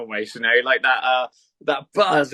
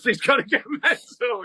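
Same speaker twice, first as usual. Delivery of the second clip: high, drawn-out words through a laugh; 9 semitones higher, slower than usual. Real, not acted. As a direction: laugh your way slowly through it. Laughs while dreading telling his girlfriend.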